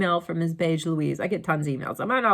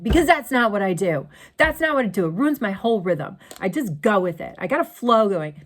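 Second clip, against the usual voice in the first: louder, insistent "Because that's not what I do"; firm retort to son; 4 dB louder than usual. Retold or imitated. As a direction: defend your way to your son. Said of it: "I'm like".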